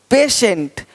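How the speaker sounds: "पेशेंट" as pay-shent, falling; "पेशेंट" with sh in the middle. Shown as a demonstration. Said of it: "तो श".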